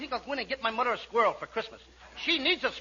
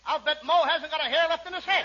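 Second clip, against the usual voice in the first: laughing through it; 2 semitones higher than usual. Acted. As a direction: laugh at the joke while speaking. Kitzel laughs at joke.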